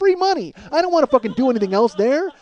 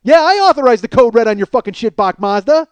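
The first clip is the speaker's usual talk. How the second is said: defiant colonel; 5 dB louder than usual. Retold or imitated. Jessup quote, louder.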